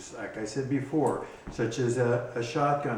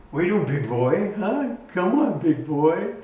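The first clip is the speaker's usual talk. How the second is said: higher, louder coaxing voice for a pet; dog talk; 7 semitones higher, 6 dB louder than usual. Real, not acted. Owner coaxing his dog to come, high pet voice. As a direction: coax the dog along.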